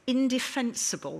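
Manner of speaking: ordinary talk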